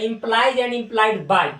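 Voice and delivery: very slow, deliberate reading; slow read-aloud. Shown as a demonstration. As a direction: dictate it to the class. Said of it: "ये इसको पढ़ा जाता है".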